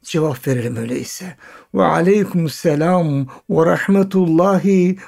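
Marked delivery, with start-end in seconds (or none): 1.7-5.0 heartfelt reply. Acted. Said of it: "gönül dolusu bir coşkuyla cevap verelim".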